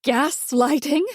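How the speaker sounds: slow, rising, mock-baffled echo; mother-in-law feigning she's never heard the word; puzzled repeat. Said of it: "in a tone that suggests she's never heard of the word".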